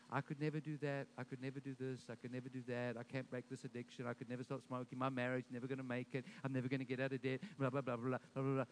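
low, monotonous mock complaining; negative self-talk. Preacher mimics people speaking negatively over their lives, droning. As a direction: drone it off as a run of excuses.

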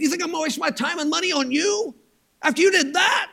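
high-pitched, incredulous rebuke; outraged at being asked for help; indignant refusal. Acted. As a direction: turn them down in disbelief, voice climbing to the end. God acted as indignant refuser.

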